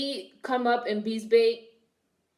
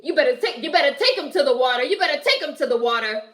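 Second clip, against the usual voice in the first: louder, fast, bossy choir director; imitating the choir director; 3 semitones higher, 6 dB louder, faster than usual. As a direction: hurry the choir along, loud and pushy. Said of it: "She's like".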